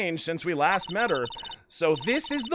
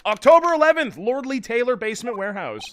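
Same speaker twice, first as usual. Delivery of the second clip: dramatic title card read; 2 semitones higher, 5 dB louder than usual. Acted. Player reading the game's location card aloud, announcer style.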